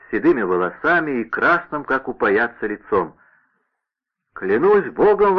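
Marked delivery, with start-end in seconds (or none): 4.3-5.4 high, slow and emphatic oath; exclaiming. A narrator's reading. D'Artagnan recognising his old servant, exclaiming. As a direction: swear it out in glad surprise. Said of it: "воскликнул Д'Артаньян".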